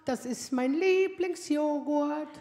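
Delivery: slow, drawn-out delight, lightly voiced; pleased son. Mother imitates her son delighted at the fridge, slow. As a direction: savour it like a teen who found his treat. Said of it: "freut er sich auch und sagt so".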